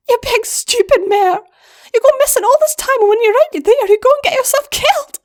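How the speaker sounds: high, loud and fast, furious little sister; tearful scolding. Acted. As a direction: yell it at her through tears. Wire scolds her missing sister.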